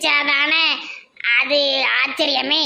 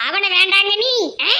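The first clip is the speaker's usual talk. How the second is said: indignant; 6 semitones higher than usual. Acted. Aunt protesting the cancelled wedding.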